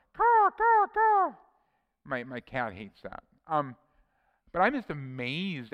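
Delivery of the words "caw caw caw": high, loud cawing like a crow. Retold or imitated. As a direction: squawk out the crow's caw. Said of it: "them annoying crows going".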